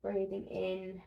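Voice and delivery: calm, even guided-relaxation voice with pauses; guided body scan. Acted. Instructor guiding listeners lying on their backs through a body scan, calm and measured. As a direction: guide them gently through the body, unhurried.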